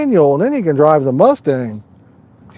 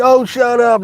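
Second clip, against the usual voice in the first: retold scoffing; 7 semitones higher than usual. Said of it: "they're like".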